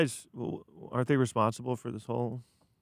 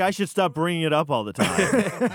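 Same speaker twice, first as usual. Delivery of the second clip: sarcastic; 6 semitones higher, 3 dB louder than usual. Real, not acted. Sarcastic reply to teasing.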